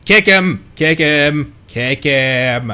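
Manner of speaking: shouted, fading from very loud; shouting. Acted. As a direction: yell it, then ease off each time. Urging a beating, repeated shouts.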